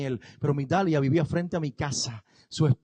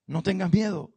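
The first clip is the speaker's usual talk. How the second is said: firme tranquilizador. Acted. Repetición más firme.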